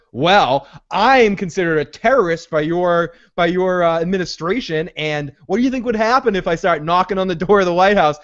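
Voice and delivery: lightly voiced lawyerly argument; a touch of mock courtroom reasoning; lawyering Jack. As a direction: imitate a man arguing his case point by point. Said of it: "Marshall Erickson lawyers him".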